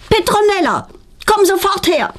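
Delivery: sharp, high summons; mock loud call. A narrator's reading. Mother summoning Petronella at night, high mock call. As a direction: call her down at once. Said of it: "ruft ihre Mutter laut".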